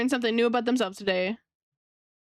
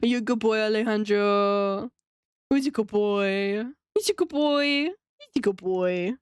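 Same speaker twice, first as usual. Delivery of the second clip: pet praise. Acted. Streamer praising Alejandro from chat like a dog, in mild pet talk. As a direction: praise him like a pet, lightly. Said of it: "He wants me to call him a good boy".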